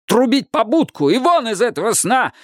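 a half-voiced cry to sound the trumpets; king wanting to shout. A narrator's reading. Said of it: "хотел он закричать".

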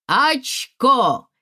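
loud, high triumphant card shout. Acted. Lyonya shouting his card win at the table, loud. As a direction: yell it as you slap the card down. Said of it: "закричал Лёня".

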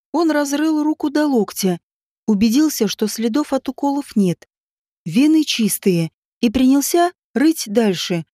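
usual speaking voice

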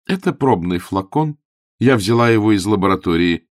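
a doting aunt writing to her nephew; aunt Angela's letter. Acted. Aunt's loving letter read in her voice.

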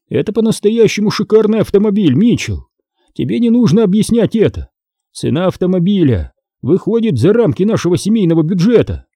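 a lightly voiced dad, patient but firm. A narrator's reading. Dad to son about price, lightly voiced firm father.

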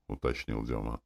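ordinary delivery

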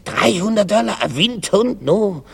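high-pitched disbelief; incredulous. Acted. Shopper hears the greyhound's price, incredulous. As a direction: scoff at the price, voice held up high. Customer shocked at price again.

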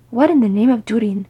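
loud, baffled exclamation; muttering to himself. Acted. Gimli confused by his sister, exclaiming to himself. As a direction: puzzle it out to yourself with emphasis. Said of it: "Gimli said to himself".

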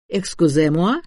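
mildly ceremonious salesman's announcement; торжественное объявление. A narrator's reading. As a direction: announce it with a touch of solemnity. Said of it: "торжественно объявил Валерий". (слегка торжественно, как объявление)

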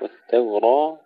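والتوراة with thin T and thick R; light ta heavy ra. Shown as a demonstration. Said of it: "الراء مفخمة والتاء مرققة". (الراء مفخمة والتاء مرققة)

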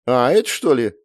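surprised. A narrator's reading. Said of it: "удивилась Света".

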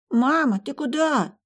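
put-on high child calling out; a small boy calling after mom, worried; child's voice. Child calls after mother.

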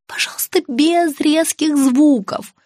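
slow, whispery plea; pleading. A narrator's reading. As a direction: beg in a pained whisper. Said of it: "взмолилась я".

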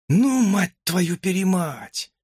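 high, slow falsetto swearing; hamster in rapture. A narrator's reading. Hamster ogles the teacher, ecstatic high slow curse. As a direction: curse out of sheer delight. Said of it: "просвистел хомяк в полном восторге".

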